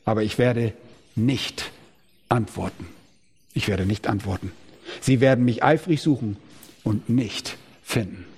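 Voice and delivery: God's final refusal spoken low and soft; solemn hush. Acted. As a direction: let each word fall heavy and quiet.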